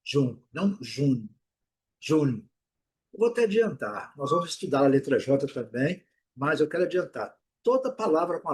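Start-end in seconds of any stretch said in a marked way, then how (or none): 0.0-2.5 "June" with a soft j and long oo; English June. Shown as a demonstration. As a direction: say "June" as joon. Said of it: "Eles pronunciam June". ("June" com J de G e U longo)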